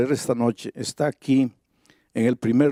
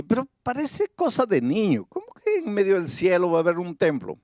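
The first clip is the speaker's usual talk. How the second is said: doubting listener; 4 semitones higher than usual. Retold or imitated. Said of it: "tú puedes decir así".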